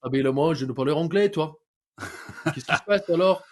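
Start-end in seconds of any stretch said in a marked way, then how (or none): 0.3-1.5 put-on French speech; French accent. Fare dodger telling inspectors no English, mock French accent. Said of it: "I can do a French accent so good". 2.0-3.4 put-on French with laughter around it; French accent. Fare dodger baffling inspectors, mock French accent. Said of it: "I can do a French accent so good".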